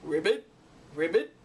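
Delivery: low, loud croaking ribbit; frog croak. Acted. Proud frog croaking loudly at the owlet. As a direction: puff up and croak it out. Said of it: "and croaked".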